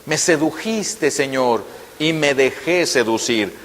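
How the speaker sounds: hushed tender quote. Shown as a demonstration. Preacher savouring Jeremiah's words to the congregation, hushed and slow. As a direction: say "y me dejé seducir" softly, slow, full of love. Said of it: "Qué palabras tan hermosas".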